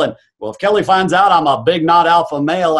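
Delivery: put-on country accent; mock country-boy voice. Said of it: "I'm doing my country voice".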